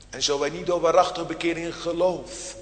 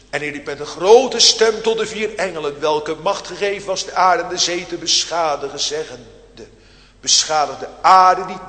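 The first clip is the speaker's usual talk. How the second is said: forceful scripture reading; 6 dB louder than usual. Real, not acted. Reading Revelation at full force.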